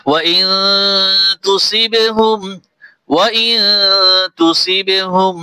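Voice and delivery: slow, melodic tajweed recitation; Quran recitation. Acted. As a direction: recite the full verse with tune. Recites the verse.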